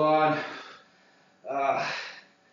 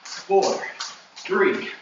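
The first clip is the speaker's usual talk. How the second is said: energetic coach; 3 semitones higher than usual. Real, not acted. Coach counting final cardio round.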